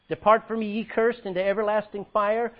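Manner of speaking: loud stern condemnation; stern judgment. Acted. Jesus condemning the cursed, loud and stern. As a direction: pronounce the sentence with force. Judge condemns, quoted loudly.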